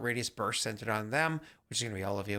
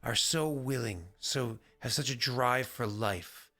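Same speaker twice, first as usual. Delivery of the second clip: angel voice. Acted. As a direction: intone it like a grave angel. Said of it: "So I'm trying to do the angel voice".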